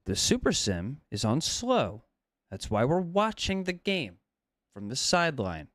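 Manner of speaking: deliberate, phrase-by-phrase explanation; measured, condescending, with pauses between phrases; slow spelling-out. Real, not acted. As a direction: spell it out as if for idiots. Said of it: "I'm gonna say this so slowly".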